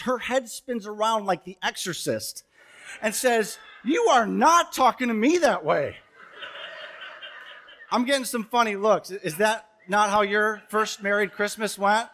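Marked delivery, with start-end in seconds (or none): 3.8-6.0 mildly hammed-up indignant retort; shocked indignation. New bride answering the husband who screamed, mock shocked indignation. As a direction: mimic an affronted wife, pitch jumping on key words. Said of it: "she is so shocked and surprised".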